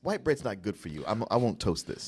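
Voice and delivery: low, soft refusal; a hint of a prim appliance saying no; lightly voiced toaster. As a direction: play the disobliging toaster, quietly.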